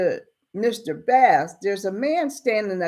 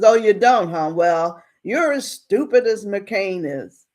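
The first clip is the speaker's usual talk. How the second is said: acted anger; 3 semitones higher than usual. Angry townsman insults the storekeeper, acted anger. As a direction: snap back, mildly mad. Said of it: "Now he's mad at her".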